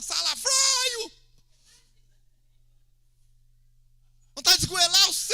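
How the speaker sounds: high, very loud mock rage; venting angry shout. Acting a believer venting when the spouse isn't near, furious mock shout. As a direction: roar the insult, dragging it out. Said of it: "você fala tudo que você tem vontade de falar".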